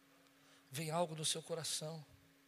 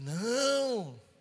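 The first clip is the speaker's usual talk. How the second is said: loud, high, drawn-out no; emphatic protest; 8 semitones higher, 9 dB louder than usual. Retold or imitated. Pastor answers a member who has drifted away, loudly protesting. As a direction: stretch it into a big mock outcry.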